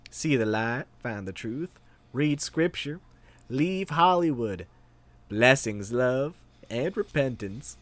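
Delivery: slow, lightly southern preachy read. Pretend. Reviewer reading a religious review aloud in a lightly southern voice. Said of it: "read this one in a southern voice".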